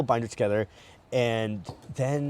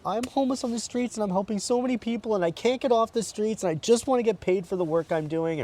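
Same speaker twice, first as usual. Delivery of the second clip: retold crying plea; 10 semitones higher than usual. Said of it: "I just started crying my eyeballs out".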